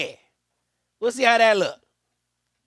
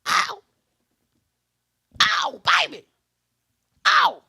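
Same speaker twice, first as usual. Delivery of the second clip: excited cheer; 5 semitones higher, 4 dB louder, slower than usual. Real, not acted. Cheering a play.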